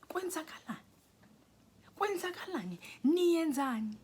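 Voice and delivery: high, rising to a loud demand; mock outraged questioning, building in volume; acted confrontation. Confronting him over what he is doing, acted outrage.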